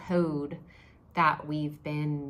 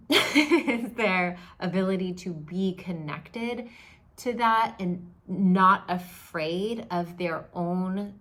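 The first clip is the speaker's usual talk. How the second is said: laughing; 5 dB louder, slower than usual. Real, not acted. Laughing while explaining.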